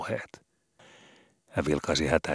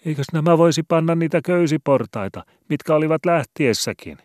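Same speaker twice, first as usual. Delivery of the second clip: much higher, loud, frightened cantor voice; anxious cantor shouting; 12 semitones higher, 9 dB louder than usual. A narrator's reading. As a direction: cry back in a panic. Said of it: "huusi vastaan lukkari".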